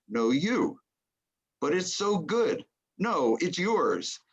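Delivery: acted-out courteous refusal within a poem; polite mock protest. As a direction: insist lightly, lifting the pitch and stretching the last refusal. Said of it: "kept politely pushing onto".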